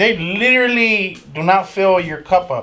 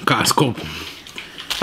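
quietly fix it, no voice on "Costco"; a breathy aside correcting to plain "Costco"; whispered correction; 6 semitones lower, 5 dB quieter than usual. Real, not acted. Whispered correction of store name.

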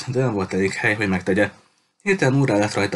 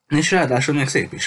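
grinning; 6 semitones higher than usual. Acted. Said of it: "folytatta vigyorogva".

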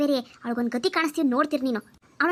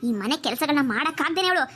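lower, plotting mother-in-law voice; aunt assuring niece she'll drive out the bride, lower and sly; scheming aunt; 3 semitones lower than usual. Acted. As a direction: relish the plan like a villainous aunt.

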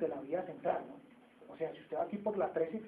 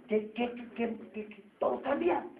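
excited rhetorical questions; 6 semitones higher, 3 dB louder than usual. Real, not acted.

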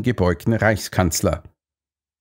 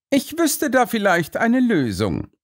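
Holmes voice; 13 semitones higher than usual. Acted. Holmes figure voice.

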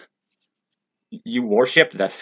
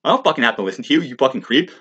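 high, loud, mock-outraged yell; shouting down police officers in a retold scene; acted angry shout; 4 semitones higher, 3 dB louder than usual. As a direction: spit the insults back at the cops. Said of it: "It's like".

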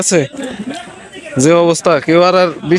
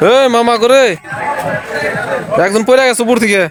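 man down shout; 5 semitones higher than usual. Real, not acted. Someone fell, calling out on slope.

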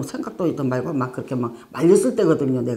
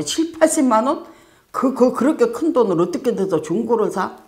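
much higher, louder stammering disbelief; shocked disbelief; 6 semitones higher, 4 dB louder than usual. Retold or imitated. Preacher aghast at paying so much for a used laptop. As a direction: gasp at the price, stumbling over the words.

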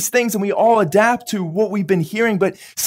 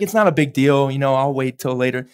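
lower, lazy shrug of a voice; lazy excuse; 7 semitones lower than usual. Retold or imitated. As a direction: put off the task, unbothered. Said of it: "he's like".

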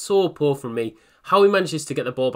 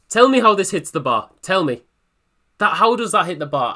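louder, higher, demanding an answer; exasperated disbelief; 3 semitones higher, 4 dB louder than usual. Real, not acted. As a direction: plead with the game to explain. Disbelief at shot hitting bar.

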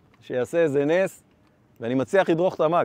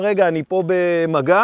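shouted reply; 5 dB louder than usual. Retold or imitated. Answering son's shout mid-fight.

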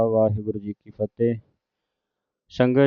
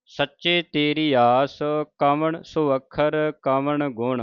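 measured, slow, devout reading of the verse; slow scripture recitation; 2 semitones higher, slower than usual. Acted. Teacher reciting Farid's shalok to the sangat, slow and devout. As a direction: chant each phrase carefully with pauses.

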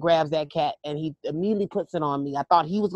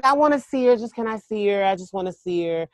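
eager plea; 4 semitones higher, 4 dB louder than usual. Retold or imitated. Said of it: "pleading to see the cat".

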